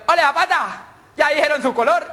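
put-on high, urgent child voice; anxious schoolboy. Worried boy checks with Zapata about his colour, anxious schoolboy. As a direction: ask a classmate anxiously. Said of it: "el negrito le dijo".

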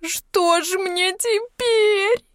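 high, very slow wail; bursting into tears. A narrator's reading. Yulka, hopeless about the house, bursts into tears. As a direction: wail helplessly. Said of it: "заревела".

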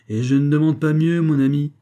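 high, loud, ready assent; eager agreement. A narrator's reading. Stranger to the young peasant, eager agreement. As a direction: agree gladly and heartily.

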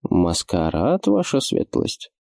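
suddenly hoarse, startled voice. Acted. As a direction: voice catching, gone hoarse. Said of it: "моментально севшим голосом".

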